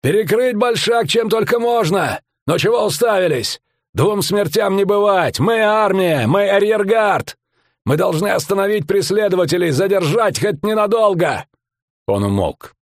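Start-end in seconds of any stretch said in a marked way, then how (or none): 0.0-11.5 rallying shout. A narrator's reading. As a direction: rouse the rearguard to hold. Commander rallying soldiers, shouting.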